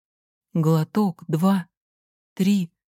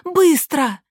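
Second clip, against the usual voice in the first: высоко, громко, медленно; командный окрик; гаркнуть; 9 semitones higher, 4 dB louder than usual. A narrator's reading. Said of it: "гаркнула я". (мать гаркает на свекровь, высоко)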